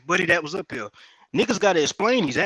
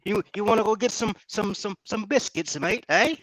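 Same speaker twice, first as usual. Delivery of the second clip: mock British accent; 4 semitones higher than usual. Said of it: "talking like that".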